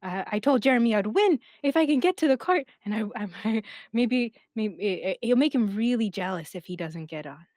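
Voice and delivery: put-on a little kid asking to ride; hesitant childlike voice; kid Marlin. GM plays Marlin.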